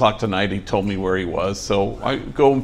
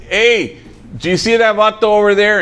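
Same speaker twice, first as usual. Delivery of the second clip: a big, booming call across the store line, much higher; loud-ass voice; 10 semitones higher, 5 dB louder than usual. Retold or imitated. Ex-con calling out in line, booming loud voice. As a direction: bellow it across the line so everyone turns.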